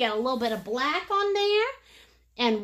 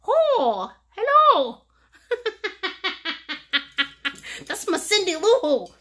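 cute greeting; 4 semitones higher, 3 dB louder than usual. Pretend. Greeting the painted little guy.

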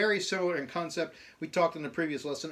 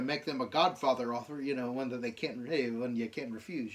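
bad Italian accent. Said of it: "really bad Italian accent".

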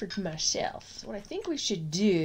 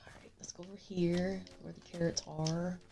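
whispering; 9 dB quieter than usual. Real, not acted. Sudden whisper while playing.

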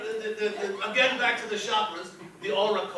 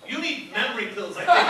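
mock advice; 6 dB louder than usual. Shown as a demonstration. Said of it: "and you say".

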